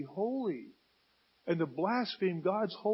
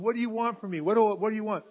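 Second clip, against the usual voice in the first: desperate plea; 3 semitones higher, 4 dB louder, faster than usual. Acted. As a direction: stumble over an urgent question to God. Saul acted, pleading with God.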